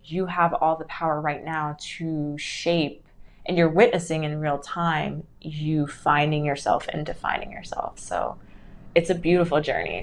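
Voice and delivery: ordinary talk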